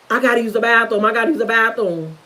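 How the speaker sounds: low, subdued repeated plea; understated, low-pitched retold plea; retold excuse. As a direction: lightly imitate a child's insistent excuse. Retold childhood pretext to escape.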